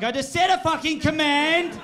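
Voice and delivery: exasperated yell, high and loud; cracking the shits. Retold or imitated. Driver losing it at the car's voice assistant, angry high shout. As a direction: blow up at a useless machine. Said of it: "I'll crack the shits out of her very quickly".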